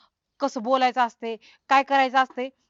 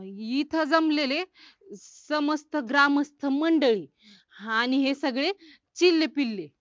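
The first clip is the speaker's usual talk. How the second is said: slow, careful recited speech; speech practice; 2 semitones higher than usual. Pretend. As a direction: recite it word by word, drawn out. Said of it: "करू practice आणि देऊ भाषण". (सराव म्हणून सावकाश भाषण)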